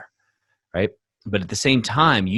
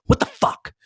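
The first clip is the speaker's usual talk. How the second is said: retold outburst. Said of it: "grabbing the trash going".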